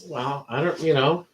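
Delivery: stuffy, sick voice; congested voice. Real, not acted. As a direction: talk through a congested nose. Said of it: "You still sound sick".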